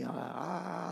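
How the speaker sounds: high, drawn-out acted cry; imitated cry of pain. Retelling pain leaving him, imitated wail. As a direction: re-enact crying out the pain. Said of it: "eu gritava".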